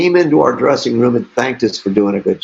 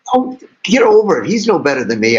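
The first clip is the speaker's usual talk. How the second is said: dismissive retort; 4 semitones higher than usual. Retold or imitated. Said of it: "she says".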